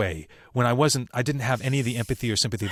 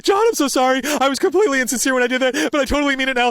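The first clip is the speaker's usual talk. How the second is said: high, loud, rushed gush of sorry; a boy running up to his teacher, gushing a high, loud apology; frantic gushing apology; 13 semitones higher, 6 dB louder, much faster than usual. Retold or imitated. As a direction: blurt it all out in a high panicked rush.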